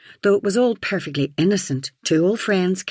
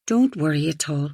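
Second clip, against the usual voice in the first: slurred. Acted. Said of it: "she slurred slightly".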